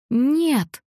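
high shrieked no. A narrator's reading. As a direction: scream it in horror. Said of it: "взвизгнула мама".

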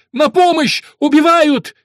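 high, loud panicked cry for help; a terrified nobleman yelling for help; screaming for help. A narrator's reading. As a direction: shriek it out in terror. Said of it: "Дон Салюстий кричит".

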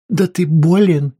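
loud, shocked outburst; exclaiming wife. A narrator's reading. Wife to husband, alarmed loud exclamation. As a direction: cry out that he's ill. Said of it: "воскликнула жена".

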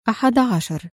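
ordinary delivery

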